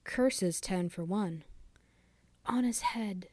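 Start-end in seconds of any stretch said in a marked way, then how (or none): 2.4-3.3 high, whispered echo; soft echo. Acted. The hall echoing the curse, quite softly. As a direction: breathe it softly as a hall's echo. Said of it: "it repeated quite softly".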